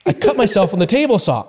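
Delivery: high, urgent re-enactment; urgent retold call. Injured man retells telling Dustin about the saw, urgent call. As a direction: call it out in mock panic.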